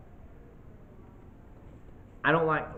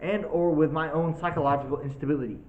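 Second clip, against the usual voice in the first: solemn will reading; 2 semitones higher than usual. Shown as a demonstration. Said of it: "the waiver we had to sign".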